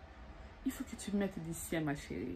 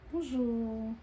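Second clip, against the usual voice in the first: inviting bonjour; 4 semitones higher than usual. Shown as a demonstration. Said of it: "Avec des mimiques qui donnent envie".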